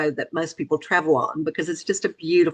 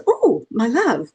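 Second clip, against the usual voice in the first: slow, drawn-out imitation of a British husband; British accent; 4 semitones higher, 4 dB louder, slower than usual. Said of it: "in his British accent".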